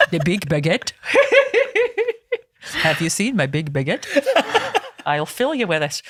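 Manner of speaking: giggling through a cheeky baguette joke; laughing between the lines of a silly innuendo. Real, not acted. Host cracking herself up over the baguette joke, laughing.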